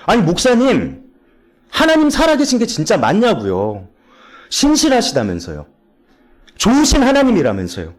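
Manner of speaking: high-pitched acted pleading complaint; imitated tearful protest. High schooler challenging her youth pastor about God, acted tearful protest. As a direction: act out confronting the pastor, without real sobs. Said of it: "막 울면서 따졌대요".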